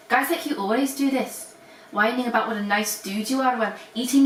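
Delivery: reading in a mock Scottish accent. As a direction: put on a Scottish accent to read. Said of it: "is to do Scottish accents".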